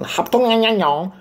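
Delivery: a high, mocking sing-song fake name; mock Asian name. Fumbling for the actor's name, a high mock-Asian garble.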